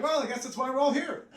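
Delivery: high, laughing shrug of a line; resigned relatives. Retold or imitated. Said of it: "they're like".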